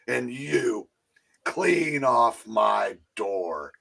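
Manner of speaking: very slow, drawn-out dismissal; mock stern. Henry Winkler ordering off the delivery guy, drawn-out stern.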